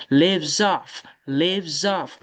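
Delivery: "Lives off" said as live-zoff; z liaison. Shown as a demonstration. Teacher telling students to link, z liaison. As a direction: run "Lives off" together on a buzzed z. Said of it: "Faut faire liaison".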